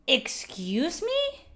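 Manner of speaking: slow, rising excuse me; drawn-out offended. Pretend. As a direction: stretch out the outrage.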